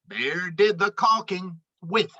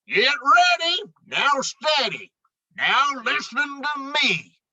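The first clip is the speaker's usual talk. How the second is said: rallying the crew; 6 semitones higher than usual. Acted. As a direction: pump up the team for the big lift. Moose directs the lift.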